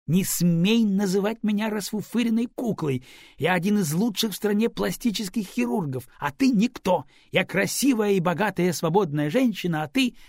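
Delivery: high, loud haughty tirade; proud woman telling him off; indignant scolding. A narrator's reading. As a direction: put him in his place. Angry woman scolding lover.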